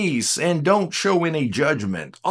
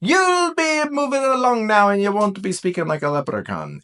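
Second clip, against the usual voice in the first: put-on higher playful Irish leprechaun accent; 7 semitones higher than usual. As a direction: ham up an Irish leprechaun lilt. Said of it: "I just wanna speak like a leprechaun".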